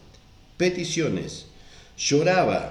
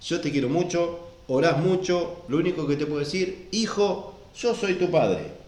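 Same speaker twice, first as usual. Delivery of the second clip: higher, gentle fatherly voice; tender divine father, pitched up; 5 semitones higher than usual. Retold or imitated. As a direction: speak as a loving father to his son. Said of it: "simplemente dijo".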